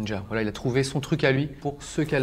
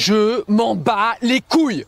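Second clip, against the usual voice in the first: dismissive; 7 semitones higher, 5 dB louder, much slower than usual. Acted. Player rejects the ad.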